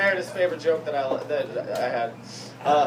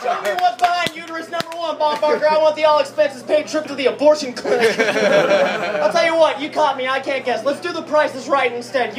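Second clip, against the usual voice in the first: game show contestant; 3 semitones higher than usual. Pretend. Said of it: "always wanted to be on a game show".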